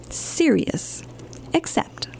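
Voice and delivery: dropped to a hush on serious and except. Acted. Librarian reading to kids, drops to a hush. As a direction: hush it like a secret. Reader mock-scared hush.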